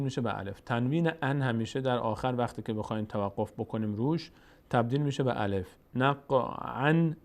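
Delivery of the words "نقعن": join-on reading, نقعن ending in -an; continuing form. Shown as a demonstration. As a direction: end نقعن on a sounded n.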